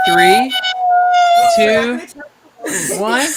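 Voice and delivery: loud high countdown call; shouted count. Real, not acted.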